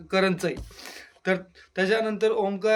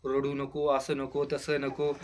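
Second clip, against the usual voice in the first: consoling; 4 semitones lower, 4 dB quieter than usual. Retold or imitated. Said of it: "तन्वीची समजूत काढायला लागली".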